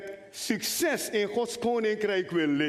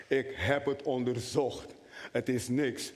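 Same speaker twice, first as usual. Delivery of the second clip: calm doctor; 9 semitones lower, 3 dB quieter than usual. Retold or imitated. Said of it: "zegt de arts".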